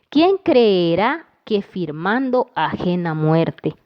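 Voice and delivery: slow, measured reading of a poem line; verse read aloud. Shown as a demonstration. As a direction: read the verse slowly, weighing each syllable. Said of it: "En el tercer verso". (lectura lenta y pausada del verso)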